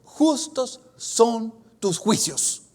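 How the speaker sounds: slow, solemn proclamation of an angel; slow reverent angel voice. Acted. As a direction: pronounce it slowly like a heavenly herald. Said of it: "él dice".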